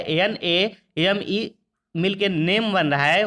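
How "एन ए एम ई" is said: slow spelling. Shown as a demonstration. Teacher spelling out letters.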